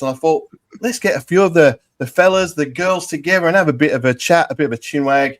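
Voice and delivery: hammed-up English accent, badly faked. Host welcoming listeners to the World Cup show, in a terrible English accent. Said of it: "terrible English accent".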